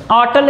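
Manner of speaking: अटल, the word होटल said with no h, starting on a; mock the wrong reading अटल without h; dropped h. Shown as a demonstration. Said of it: "अटल नहीं बोल रहे हो". (ह छोड़कर गलत उच्चारण अटल)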